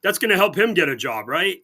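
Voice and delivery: mock praise, heavy irony; sarcastic. Real, not acted. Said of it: "I'm being very sarcastic".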